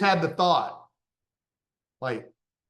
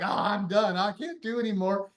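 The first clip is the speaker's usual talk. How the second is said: higher-pitched pleading protest; mock exhausted complaint; 5 semitones higher than usual. Client begging off to his gym trainer, mock exhausted. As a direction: play the worn-out client giving up.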